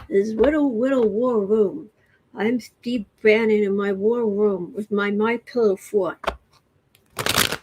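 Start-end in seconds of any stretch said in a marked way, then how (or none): 0.1-6.2 mock baby-talk accent, r's and l's turned to w; lightly put-on little-kid lisp, teasing; Steve Bannon. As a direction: tease him in a babyish mock accent. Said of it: "he's talking in this accent".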